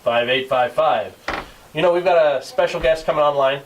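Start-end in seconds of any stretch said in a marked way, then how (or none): 0.0-1.1 announcer voice. Shown as a demonstration. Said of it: "I'll do my announcer voice".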